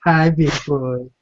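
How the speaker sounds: slow, sultry put-on woman's voice; flirty lady voice. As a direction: purr it like a seductive lady. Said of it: "It's him putting on the lady's voice".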